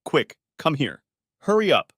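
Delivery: hurried, rising to a loud high call; urgent hushed-to-loud summons. A narrator's reading. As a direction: hiss him in fast, then call out. Penny urgently calls Kenny in.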